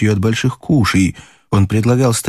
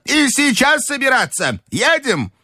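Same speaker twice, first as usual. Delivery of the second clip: high, curt order home; commanding old lady. A narrator's reading. Grandmother ordering everyone home, high and curt. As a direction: snap the order to leave.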